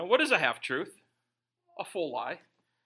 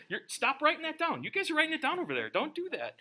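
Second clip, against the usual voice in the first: higher, laughing, telling them to stop; laughing protest; 8 semitones higher, faster than usual. Real, not acted. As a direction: laugh through it, begging them not to write it down. Congregation writing down joke, laughing.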